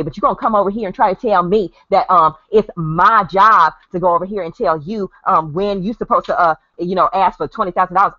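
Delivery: hammed-up angry woman voice; mock angry woman. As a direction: tell her off like an angry woman. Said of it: "It would have been more like this".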